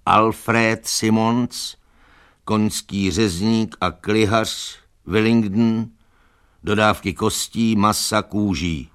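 slow, measured reading of a sign. A narrator's reading. Donkey reads cart's sign into silence, reading out. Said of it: "do hlubokého ticha četl".

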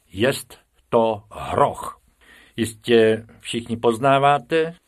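slow, pompous lecturing teacher. Acted. Teacher presenting the hippo to his class, slow and pompous. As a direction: announce it like a solemn lesson.

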